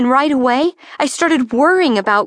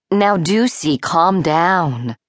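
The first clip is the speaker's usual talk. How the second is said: calming; 6 semitones lower, slower than usual. A narrator's reading. Mother soothing her panicking daughter.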